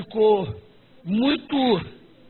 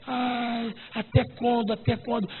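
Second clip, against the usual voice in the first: weary sigh; 4 dB quieter, slower than usual. Retold or imitated.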